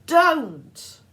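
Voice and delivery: high, loud desperate scream. A narrator's reading. Girl screaming at Percy not to look, loud. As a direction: scream to stop him. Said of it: "Annabeth screamed".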